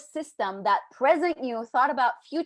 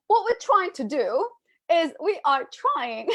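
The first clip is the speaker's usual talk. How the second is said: put-on terrible British accent; 3 semitones higher than usual. Coach before giving up, hammed-up British accent. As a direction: keep up a poor British accent. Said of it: "I'm just gonna stop".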